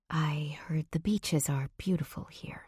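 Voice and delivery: soft, voiceless whisper. A narrator's reading. Heroine to the man she's gazing at, whispering. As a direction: let it come out in a whisper. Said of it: "My voice comes out in a whisper".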